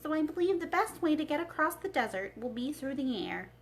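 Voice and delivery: a hint of a thoughtful old wizard; Oz's voice. The wizard shares his balloon plan with Dorothy, lightly voiced.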